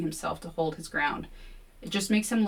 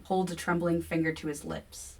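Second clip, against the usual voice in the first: ordinary delivery, nothing marked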